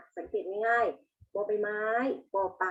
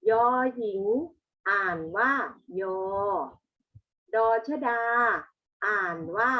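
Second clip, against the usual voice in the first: classroom recitation; 3 dB louder than usual. Shown as a demonstration. Teacher leads pupils in reading the consonants, classroom recitation. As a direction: recite each letter name louder, then its sound.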